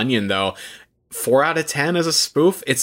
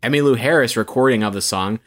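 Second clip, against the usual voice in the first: announcer voice. Pretend. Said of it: "put that announcer voice on".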